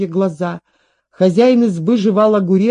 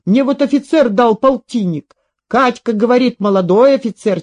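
lightly voiced, animated soldier telling his exploits; boastful old soldier. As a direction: boast with emphatic, rising fervour. (хвастливый старый солдат)

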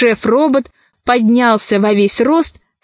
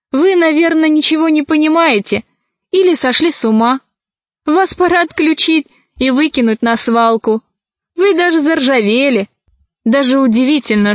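higher, faster indignant tirade; indignant scolding; 3 semitones higher than usual. Acted. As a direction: tell the robots off sharply. Alisa scolds the robots.

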